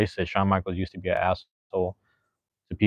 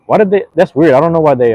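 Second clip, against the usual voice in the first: surprised; 8 semitones higher, 12 dB louder than usual. Real, not acted. Video blocked for review.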